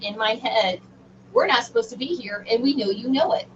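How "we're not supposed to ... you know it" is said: lightly voiced taunting bully; a hint of mocking schoolyard bully. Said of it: "like a schoolyard bully taunt".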